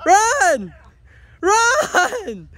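high loud yells of run; urgent shout. Real, not acted. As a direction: yell at them to run. Cow chasing, shouting run.

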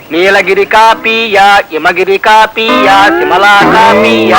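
patient, drawn-out menu chant; waiter reciting options. Retold or imitated. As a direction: rattle off every kind of dosa like a waiter. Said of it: "అప్పుడు server".

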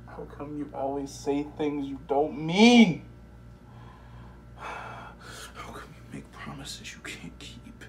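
accusing. Acted. Man scolds his own inner voice for lying, forceful accusation. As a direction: press hard on every why. Confronting himself about lying.

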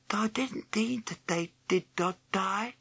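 put-on tearful, soft whisper of a sad boy. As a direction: whisper it, full of woe. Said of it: "he whispered".

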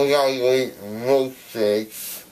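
slurred, numb tongue; words blurred by a numb mouth; numb from the dentist. Real, not acted. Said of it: "my tongue is so long".

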